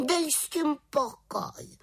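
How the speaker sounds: high, slow, sulky retort; grumpy cry. A narrator's reading. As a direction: brush him off, annoyed. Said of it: "vykřikla mrzutě". (vysoká mrzutá odpověď)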